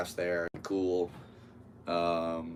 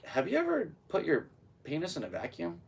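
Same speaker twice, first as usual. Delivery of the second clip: mock curious blurt; 9 semitones higher than usual. Blurting odd question to buddy.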